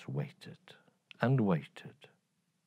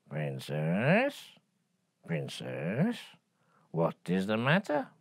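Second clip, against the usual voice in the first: gently lowered frog voice; a kind frog calling softly; 3 dB quieter than usual. Acted.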